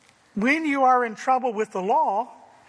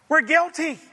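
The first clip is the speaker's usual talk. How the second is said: higher and louder, pressing the verdict home; forceful declaration; 6 semitones higher, 3 dB louder than usual. Real, not acted. Preacher to congregation, forceful declaration. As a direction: declare "We're guilty" loud, "guilty" falling.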